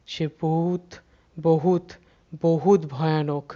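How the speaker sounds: বহুত repeated, each stressed, slowing on বহুত ভয়ানক; building emphasis. A narrator's reading.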